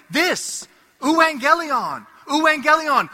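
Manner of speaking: "euangelion" called out high and loud like a herald; messenger's proclamation. Retold or imitated. Messengers announcing Caesar's victory through Rome, a ringing call. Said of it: "what would the messengers say".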